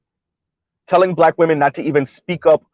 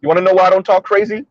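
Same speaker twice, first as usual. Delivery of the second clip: imitating the brothers; faster than usual. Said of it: "And they talk like this".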